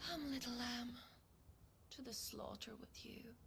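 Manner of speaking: mocking menace. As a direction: tease the prey before the kill. Villain mocks before killing.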